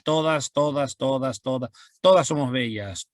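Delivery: teacher demoing anaphora, repeating todas rhythmically; repeated first word. Shown as a demonstration. Teacher shows repetition, todas said over and over. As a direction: chant the repeated word, leaning on each todas. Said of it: "Voy a repetir la primera palabra".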